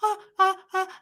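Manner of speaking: short high startled "ah" noises; freaked-out gasps. Retold or imitated. Mother speechless after being screamed at, freaked-out gasps. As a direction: stammer out small, high, shocked gasps. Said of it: "I was so freaked out".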